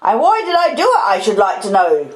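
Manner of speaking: high, indignant outburst; shouty, exasperated question; exclaimed scolding. Acted. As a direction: demand it as an angry sister. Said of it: "exclaimed my sister".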